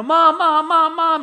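put-on high, loud, whiny child's voice; kids calling mom. Kids calling their mom over and over, high and whiny. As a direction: pester like a small child.

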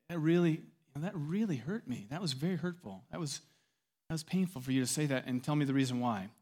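soft, gently hurt confiding; quiet, careful voicing of hurt; tender wife. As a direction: softly tell him it stung. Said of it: "She's very tender".

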